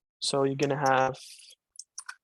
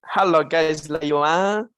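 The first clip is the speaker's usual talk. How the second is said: light imitation of a Malaysian English accent, louder; 5 dB louder, slower than usual. Showing viewers how Malaysians speak English, mock Malaysian accent. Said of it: "That's how they speak it".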